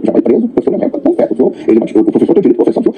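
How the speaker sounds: high, urgent insistence; earnest father. Retold or imitated. The father insists to the clerk on going to jail, high urgent. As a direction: pitch it up, insisting.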